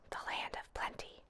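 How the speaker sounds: soft breathy whisper of wonder. A narrator's reading. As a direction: breathe it out in awe. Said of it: "she whispered".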